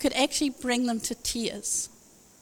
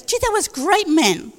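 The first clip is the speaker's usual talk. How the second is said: put-on South African accent; 3 semitones higher, 4 dB louder than usual. South African friend talking to the preacher, imitated South African accent. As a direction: imitate a South African friend, pitch lifted then dropping. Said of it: "He even calls me man".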